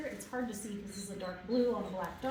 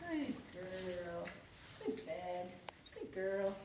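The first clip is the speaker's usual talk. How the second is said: soft, lower murmur of praise; low hushed praise; 3 semitones lower, 6 dB quieter, much slower than usual. Real, not acted. Trainer praising a wound-up dog, low and hushed. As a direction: keep it hushed and calm. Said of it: "keeping my tone low and almost hushed".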